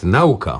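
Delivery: "nauka" as NAU-ka, front stressed; misheard-in-public stress. Retold or imitated. Host quotes what one sometimes hears, "nauka" stressed on NAU. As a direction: imitate the common error, NAU-ka for "nauka". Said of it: "Czasami słychać nawet".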